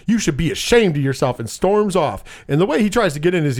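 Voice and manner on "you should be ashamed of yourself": high-pitched mock indignation, rattled off; acted righteous outrage; making a stink. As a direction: kick up a fuss as an affronted woman. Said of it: "he makes this big fucking stink".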